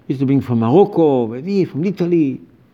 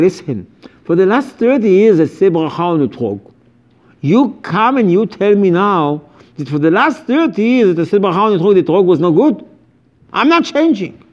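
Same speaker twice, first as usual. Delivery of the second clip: a hint of an indignant congregant, rising higher; stubborn old-timer; 4 semitones higher than usual. Old-timer telling the rabbis he won't change, mildly indignant. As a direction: dig in your heels, mock indignant. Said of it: "people used to say".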